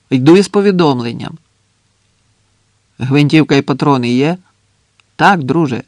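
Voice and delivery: moderately loud, projected exchange; calling across. Acted. Sentry and messenger questioning each other, calling out. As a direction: project each reply up to the trench.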